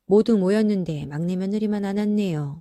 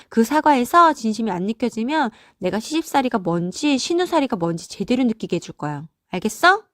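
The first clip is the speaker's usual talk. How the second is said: scolding, threatening tirade; angry older sister; 3 semitones higher, 3 dB louder than usual. Acted. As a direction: lay down the law to a little brother. Sibling scolds and threatens the son. (동생을 호되게 몰아붙이는 화난 누나)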